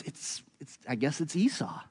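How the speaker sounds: put-on whispered, unsure old man conceding; Isaac giving in to the deception, whispering uncertainly; hesitant whisper. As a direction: breathe it out in doubt, then half-voice the name. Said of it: "Isaac goes".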